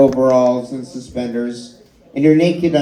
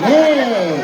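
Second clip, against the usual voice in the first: squeaky little voice; 8 semitones higher than usual. Retold or imitated. Mocking little penis voice.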